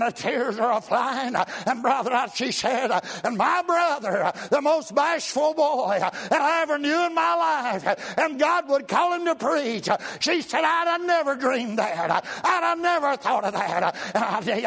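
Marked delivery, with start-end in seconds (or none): 3.2-13.8 sister's excited praise. Retold or imitated. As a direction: marvel at her shy brother. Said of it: "she got to shouting".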